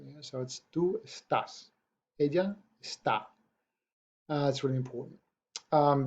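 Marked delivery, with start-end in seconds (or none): 0.7-1.7 "tú estás" slowly, with the stress on the TÁS of "estás"; stress on second syllable. Shown as a demonstration. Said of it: "we place that vocal stress". 2.2-3.2 "ella está" with the stress on the TÁ of "está"; stress on second syllable. Shown as a demonstration. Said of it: "we place that vocal stress".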